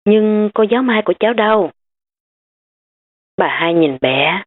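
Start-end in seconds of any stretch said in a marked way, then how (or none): 0.0-1.7 put-on higher child voice, snapping; a little girl demanding, pitched up. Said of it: "Bé Ân Ân gắt lên".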